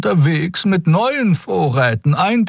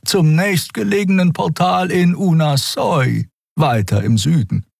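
tiefe, ruhige Vogelstimme, gemessen; Xea-Stimme. Acted. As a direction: sachlich und bedächtig als weise Xea. Xea spricht, tiefere Figurenstimme. (tiefe, ruhige Stimme)

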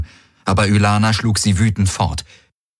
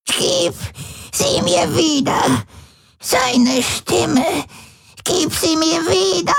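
put-on much higher, crying old woman begging; tearful pleading; slower than usual. A narrator's reading. Old Voi begs Tari to give back the implant, crying. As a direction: beg through tears for what was taken. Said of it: "Tränen standen in Vois uralten Augen".

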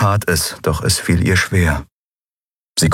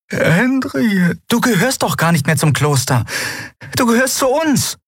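put-on old healer Xea. Xea, the old healer, speaking high and gentle.

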